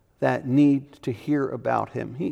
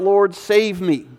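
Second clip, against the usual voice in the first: slow plea; 3 semitones higher, 3 dB louder, slower than usual. Acted. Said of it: "cry out".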